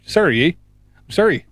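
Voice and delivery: lightly put-on Canadian accent. Teasing Canadians about apologising, mock Canadian accent. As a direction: play up the polite Canadian "sorry" a little. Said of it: "It's part of the Canadian accent".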